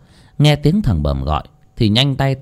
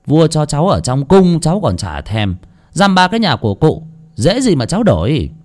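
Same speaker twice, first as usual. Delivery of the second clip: mocking jeer; 5 semitones higher than usual. Boy mocks the old landlord, jeering. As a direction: taunt him with a cocky grin. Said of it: "mà cười cợt".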